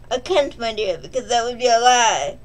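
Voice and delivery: put-on a faint British accent on a gentleman's refusal; failed British accent. Reviewer doing Barnabas in a weak British accent, refusing the maid. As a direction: try a posh British accent and barely get there. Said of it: "my attempt at a British accent".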